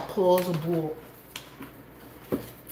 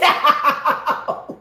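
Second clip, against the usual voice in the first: imitating ouch; 7 semitones higher, 6 dB louder than usual. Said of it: "She said".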